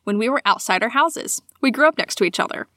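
measured read-aloud storytelling; story narration. A narrator's reading. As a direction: read it aloud like a personal tale. Reads a listener's sighting aloud.

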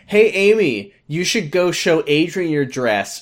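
high, singsong mock call-out; retold yell. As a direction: call to her from another room, lightly imitated. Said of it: "she yells to Amy".

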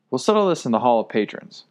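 firm and settled, no doubt; decisive. Acted. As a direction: lay down the decision firmly. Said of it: "I said decisively".

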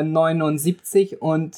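put-on German accent. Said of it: "do a German accent".

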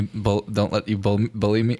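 tripping over the words; stuttering. Real, not acted. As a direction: stammer through it. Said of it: "I'm literally stuttering".

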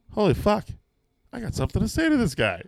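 high, loud rush of panic; panicked realization. Retold or imitated. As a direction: blurt it out in sudden alarm. Sudden realization, shouted high.

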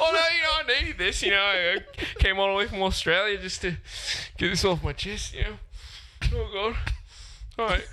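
a hammed-up Aussie getting it off his chest; Ben Simmons as Aussie. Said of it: "Sounds like a therapy session".

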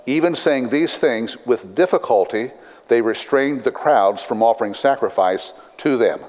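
measured, deliberate Bible reading; scripture reading. Acted. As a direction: read scripture aloud to a congregation. Reads scripture aloud to congregation.

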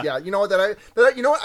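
heated outburst; agitated. Real, not acted. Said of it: "I don't know why I sound so agitated".

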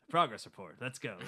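put-on lightly hammy old-timey actor; a hint of sixties movie hero; overacting. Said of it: "overacting voice".

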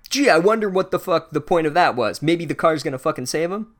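heavy sarcastic "gee, I wonder". Acted. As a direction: feign wonder at an obvious plot point. Mocking the obvious plot setup.

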